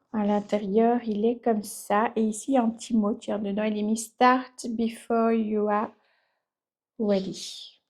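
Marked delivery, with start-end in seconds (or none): 4.0-7.8 slow, French-accented English; French speaker carefully reading English; self-mocked English accent. Real, not acted. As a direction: read the English motto slowly with a French accent. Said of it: "Avec mon magnifique accent anglais".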